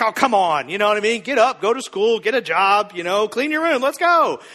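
loud nagging list; hammed-up parental pep talk; mock impatient parent. Parent pushing a kid to school, mock-impatient.

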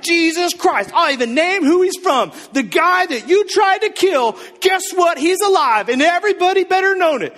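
high, loud, pumped-up callout; trash-talk them like a wrestling promo; wrestler trash talk. Retold or imitated. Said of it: "Stone Cold Steve Austin on these fools".

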